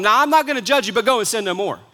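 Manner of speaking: a glib, hurried verdict tossed off; quick to judge. Shown as a demonstration. Preacher mocking believers' hasty judgment, quick and glib. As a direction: rush it like a verdict you've already decided. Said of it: "we want to be quick to tell them".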